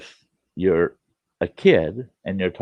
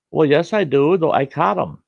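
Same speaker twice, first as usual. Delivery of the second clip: put-on higher, louder boyish reply; young boy's voice; 9 semitones higher, 5 dB louder than usual. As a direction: answer back like a nervous polite kid. Boy answering angry neighbor.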